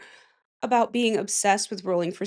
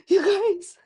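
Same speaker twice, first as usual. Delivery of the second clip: shocked; 10 semitones higher than usual. Real, not acted. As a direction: call out in dismay. Finds hair on herself.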